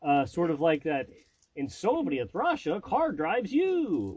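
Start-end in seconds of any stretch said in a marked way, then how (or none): 1.6-4.1 slow, higher mock Russian accent; Russian comedian impression. Quoting a Russian comedian, in a mock Russian accent. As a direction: drag out the Russian catchphrase, lightly hammed. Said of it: "whatever that guy's name is".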